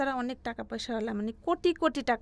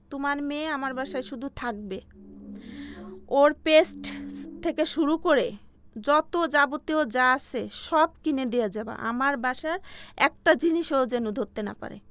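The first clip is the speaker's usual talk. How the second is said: retold stern orders, louder and emphatic; uncle's stern conditions; 4 dB louder than usual. Uncle setting terms to her mother, retold sternly. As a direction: lay down house rules in a raised voice. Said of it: "সেজো চাচা বলে".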